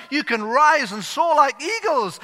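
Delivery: hammed-up shouting preacher; duck preacher shouting. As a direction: thunder it from the pulpit. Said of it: "the duck preacher".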